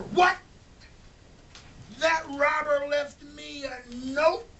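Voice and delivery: high, loud disbelief; astonished Mr Smith. Acted. Mr Smith finding the robber's note, high and shocked. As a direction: blurt it out in shock.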